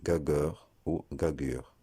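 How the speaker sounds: "gagueur" said slowly with a hard g as in gare; slow demo of "gagueur" with hard g; mispronunciation with hard g. Shown as a demonstration. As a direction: read "gageure" wrongly, hard g, no j sound. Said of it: "on le prononcerait".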